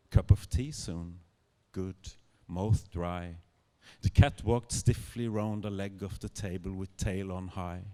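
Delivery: measured, unhurried literary reading; story narration. A narrator's reading. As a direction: savour each phrase as a storyteller.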